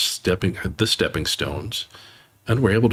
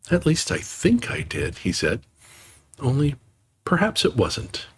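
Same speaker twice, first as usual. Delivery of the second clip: lightly voiced timid Piglet, higher; a hint of small nervous Piglet; unsure little pig, lightly done; 6 semitones higher than usual. Piglet's lines in story.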